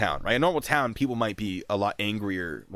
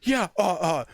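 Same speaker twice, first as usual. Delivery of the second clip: flustered private; 10 semitones higher, 5 dB louder than usual. Retold or imitated. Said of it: "He's like".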